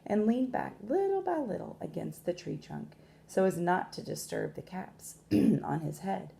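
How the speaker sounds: measured storytelling with long pauses; expressive picture-book narration; story read to children. A narrator's reading. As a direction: read aloud to young listeners, stressing key words.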